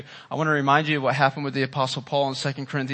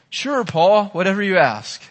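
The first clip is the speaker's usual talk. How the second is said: mock God voice; 4 semitones higher, 4 dB louder than usual.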